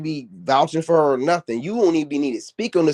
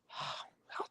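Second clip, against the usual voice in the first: hammed-up sobbing, much higher; mocking whine of a hurt poster, pitched way up; mock crying whine. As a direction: wail it like a fake crybaby. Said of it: "I'm like".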